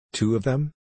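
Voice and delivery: put-on a child who can't believe her eyes; amazed. A narrator's reading. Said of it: "in amazement".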